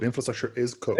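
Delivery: "is" pressed firmly to correct the host; corrective stress on is. Real, not acted. Correcting the host's wording by stressing "is". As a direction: lean on "is", not "as". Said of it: "Is, is code".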